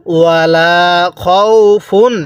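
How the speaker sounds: ওয়ালা খাউফুন with the final ন said clearly, no nasal; clear tanween. Shown as a demonstration. Teacher demonstrates clear tanween in খাউফুন. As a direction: say খাউফুন ending on a clear ন, no ghunnah. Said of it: "স্পষ্ট করে".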